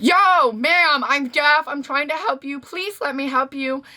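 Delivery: high mock yell that quickly softens; retold scream. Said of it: "So I scream, like".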